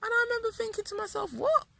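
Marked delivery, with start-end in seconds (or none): 1.3-1.7 shocked what. Retold or imitated. Shocked at her own mind.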